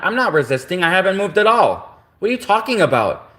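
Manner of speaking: acted-out objection, pitch climbing; indignant protest. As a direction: plead your case in disbelief. Acted protest to police officer.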